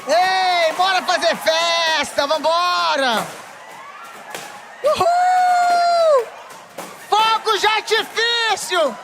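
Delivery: shouting uhul and urging the women to pop their balloons; hype shouting. Real, not acted. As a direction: fire up the crowd, celebrating. Cheering the crowd to pop balloons.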